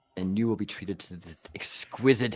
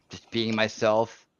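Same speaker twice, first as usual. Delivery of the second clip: slow and drawn out; slower than usual. Shown as a demonstration. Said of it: "repeats it differently".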